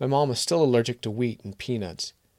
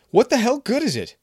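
much higher and louder, yelled; furious shout; 13 semitones higher, 10 dB louder than usual. Acted. Kevin screaming at Maria, shaking the jar.

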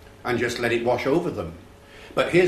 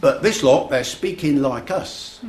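higher, slow Cockney impression; inner-city London teen; 4 semitones higher, 3 dB louder than usual. Lad marvels at the actors' speech, imitated Cockney. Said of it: "between the Cockney accent".

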